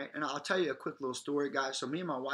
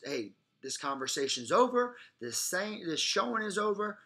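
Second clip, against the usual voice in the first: firmer, louder; 6 semitones higher, 3 dB louder than usual. Shown as a demonstration. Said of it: "firmer and louder every single time".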